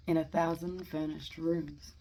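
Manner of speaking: measured verse reading with pauses between lines; poetry reading. Acted. Amateur reading Eliot's Preludes to listeners, measured poetry reading. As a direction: read each line out deliberately, then pause. Reads a poem aloud.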